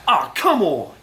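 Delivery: a sudden loud groan at the TV; watching the game, frustrated by a sack, loud outburst. Retold or imitated. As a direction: blurt it out loud at the screen. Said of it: "at that volume level".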